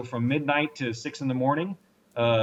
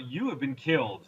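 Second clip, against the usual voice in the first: lightly imitated game announcer; 3 semitones higher than usual. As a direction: deliver bad news like an announcer, slightly lifted. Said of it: "they've got an announcer in the background".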